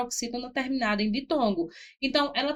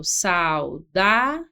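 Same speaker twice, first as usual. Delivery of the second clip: saudável very slow with a rising end; teacher repeating saudável slowly, rising; slow rising demo; 4 semitones lower, 3 dB louder, much slower than usual. Shown as a demonstration. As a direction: draw saudável out, lifting at the end.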